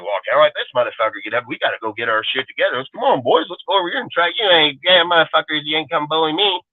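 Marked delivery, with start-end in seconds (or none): 0.0-4.3 lower, fast mock voice of scheming rivals; mocking the haters. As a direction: sneer as the jealous crew plotting, lower and quick. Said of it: "You're like".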